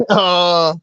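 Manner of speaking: mock waking-up moan; groggy groan. Reader replaying waking hours later, groggy groan. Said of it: "and I'm like".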